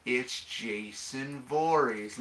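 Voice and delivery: very slow, savoured reveal; understated smugness. Acted. Sheriff revealing the killer to the mayor, slow smugness. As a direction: draw it out slowly with a slight grin. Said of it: "like, partial grin on his face".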